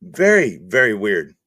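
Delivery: a slow, deadpan "very, very weird". Acted. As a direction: sink the voice down on "very weird". Repeating the phrase as a bit.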